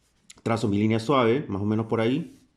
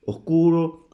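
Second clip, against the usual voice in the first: drawn-out, high, louder "Oscuro"; slow motion; 7 semitones higher, 4 dB louder, much slower than usual. Shown as a demonstration. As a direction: stretch "Oscuro" slowly, loud and high. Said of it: "En cámara lenta sería así".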